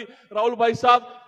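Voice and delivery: loud, slow call to Rahul bhai sahab. Real, not acted. Speaker to audience member Rahul, a slow loud call. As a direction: stretch out साहब as you call him.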